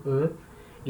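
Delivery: the letter "E" as a soft rounded "euh"; E fraco. Shown as a demonstration. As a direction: drop "E" softly as a French schwa. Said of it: "O som permanece igual ao infinitivo". ("E" fraco, baixinho, som de "eu" francês)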